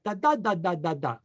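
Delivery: imitated babbling, a run of da syllables; baby babble. Shown as a demonstration. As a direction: babble like a baby trying to talk. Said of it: "It's babble".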